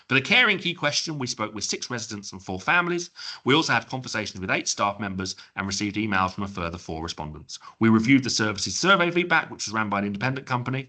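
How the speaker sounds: a light hint of a formal inspector reading a report; CQC inspector impression. Presenter lightly imitating a CQC inspector reading findings. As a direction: read it like an official summary, only lightly put on. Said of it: "my impersonation of a CQC inspector".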